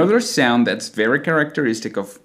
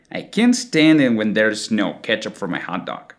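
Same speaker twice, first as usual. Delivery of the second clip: American accent, can't and stand with stretched A; American long A. Shown as a demonstration. Teacher putting both words together, American long A. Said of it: "expands the vowel sound the same way".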